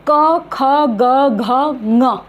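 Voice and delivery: क, ख, ग, घ, ङ one by one, all from the throat; teacher modelling क, ख, ग, घ, ङ from the throat; pronunciation demo. Shown as a demonstration. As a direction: recite क, ख, ग, घ, ङ as separate sounds, ending on nasal ng. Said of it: "जो उच्चारण स्थान है".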